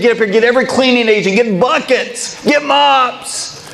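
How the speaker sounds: urgent orders. Retold or imitated. To his wife, frantic call for cleaning gear. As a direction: rush the family into action.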